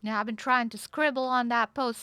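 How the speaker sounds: slightly lilting Southern belle, chatty and polite; lightly voiced Southern belle. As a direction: play a gently friendly Southern belle. Plays Southern belle in roleplay.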